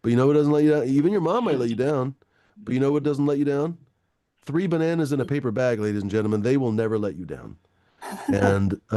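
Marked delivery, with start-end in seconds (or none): 0.0-7.6 mock ad read. Streamer pitching bananas as sponsor, in a mock ad voice. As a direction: sell it like a cheesy commercial. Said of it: "another sponsor segment".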